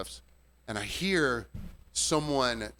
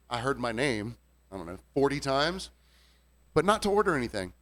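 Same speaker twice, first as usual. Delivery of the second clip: ordinary delivery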